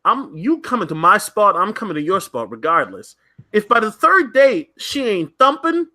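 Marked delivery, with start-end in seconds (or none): 3.5-5.9 lightly sung-out, higher R&B style; a hint of an R&B singer's crooning. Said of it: "a singer's voice".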